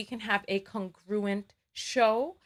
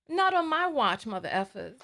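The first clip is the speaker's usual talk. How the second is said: defiant declaration. Real, not acted. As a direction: fling "Not" out like a challenge. Defiant vow to commenters.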